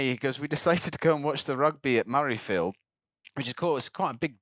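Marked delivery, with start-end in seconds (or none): 0.4-2.7 lightly imitated Scottish islander; retelling in a Scottish voice; Scottish accent. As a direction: put on a local Islay accent. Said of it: "You don't have to do the accent".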